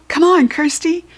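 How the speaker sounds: high, loud cheering shout. A narrator's reading. Rachel cheering Buttons on after the goblin, shouting. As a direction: urge the dog on at full voice. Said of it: "shouted Rachel".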